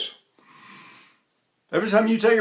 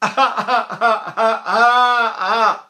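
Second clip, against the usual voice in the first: high, louder laughing ha ha; baby laughter imitation; 5 semitones higher, 5 dB louder, slower than usual. Teacher shows babies laughing in open resonance. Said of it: "they're not in their noses".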